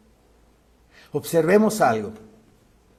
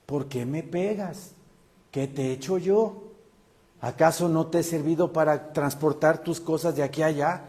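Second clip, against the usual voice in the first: mild reply. Acted. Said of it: "Contestó mejor que cualquier ser humano la burra".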